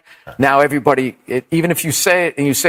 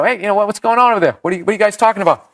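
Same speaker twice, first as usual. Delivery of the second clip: fast, higher challenge from the stage; mock confrontation; 5 semitones higher, much faster than usual. Comic to kids in the corner, quick challenge. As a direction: re-enact calling out the talkers, rapid-fire.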